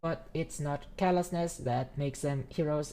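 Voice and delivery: formal AI speech, slightly stiff; measured, stiff robot orator. Acted. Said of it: "Tesla would talk that just for shits and giggles".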